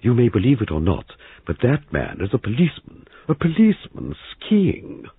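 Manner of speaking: high, emphatic pronouncement, slowing at the end; booming indignation. A narrator's reading. Older woman over her knitting on skiing policeman, booming. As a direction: declare it with rising outrage. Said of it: "Missus Boyle's voice boomed out".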